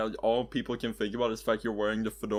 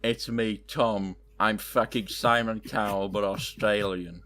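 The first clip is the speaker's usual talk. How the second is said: put-on Australian accent; 3 semitones lower, slower than usual. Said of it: "could you please do that accent again".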